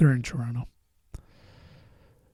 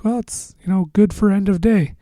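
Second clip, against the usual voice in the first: put-on higher, lightly accented voice; light Asian accent; 7 semitones higher, 5 dB louder than usual. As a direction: imitate a mild Asian accent. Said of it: "had, like, an Asian accent".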